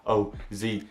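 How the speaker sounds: quick-fire letters; rapid spelling. Shown as a demonstration. Storyteller showing the speed of the board, rapid spelling. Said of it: "I'm talking this fast".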